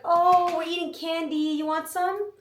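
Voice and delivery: mock offer. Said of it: "I'd be like".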